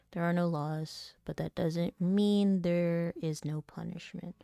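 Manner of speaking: understated rehearsal read of a grave speech; quick read-through. Shown as a demonstration. Actor running the lines first, a quick understated read-through. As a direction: lightly practise a solemn judgement. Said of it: "do a quick read through".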